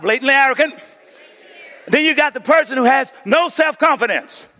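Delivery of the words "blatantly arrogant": congregation shouts it back; blatantly arrogant, shouted out. Shown as a demonstration.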